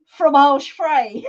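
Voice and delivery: put-on slow, mangled Del Boy French. Laughing with friends, slow Del Boy mangled French. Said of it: "as Del Boy would say".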